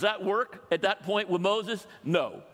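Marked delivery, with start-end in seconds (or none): none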